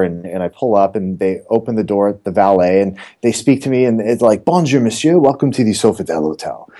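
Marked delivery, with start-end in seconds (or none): 4.4-6.7 imitating a valet's put-on French greeting; hammy fake French accent from a Midwesterner. Hotel valet greeting an arriving guest, in a fake French accent. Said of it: "these fake French accents".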